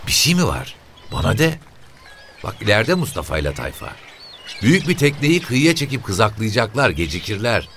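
high-pitched, chatty woman's voice; shrill woman. Acted. (cırlak sesli kadın)

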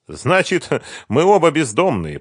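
put-on young woman drawing a light conclusion; summing up. A narrator's reading. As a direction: wrap it up wryly. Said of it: "подвела итог Света".

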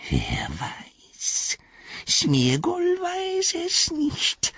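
langsam, gehaucht und jammernd, eine Kreatur; Gollum-Stimme. A narrator's reading. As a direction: raune es wie ein gequältes Wesen. Gollum antwortet. (Gollum erzählt flüsternd und langsam von der alten Schlacht)

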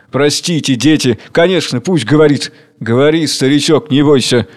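mildly conciliatory, soothing; soft apology. Acted. King apologises to the workers, softly. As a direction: reassure gently, backing down. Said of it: "извиняясь мягко".

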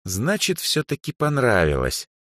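smug pleased friend. A narrator's reading. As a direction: savour the conclusion. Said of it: "довольно кивнула своим мыслям Эльза".

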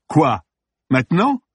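high, indignant disbelief; incredulous. Acted. Actor interrupted mid-shoot by police, incredulous. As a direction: react as if the timing is absurd.

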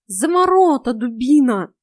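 high, loud scolding; loud, high-pitched cat rebuke; exasperated cat. A narrator's reading. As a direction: bark it at a dimwit.

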